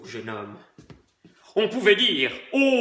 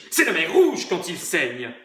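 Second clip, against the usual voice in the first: dramatic. Acted.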